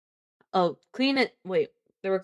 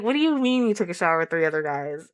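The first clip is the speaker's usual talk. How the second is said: mock disbelief, a bit louder; incredulous; 3 dB louder than usual. Reacting to the book for chat, in mock disbelief. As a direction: replay your own shocked reaction. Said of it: "I was like".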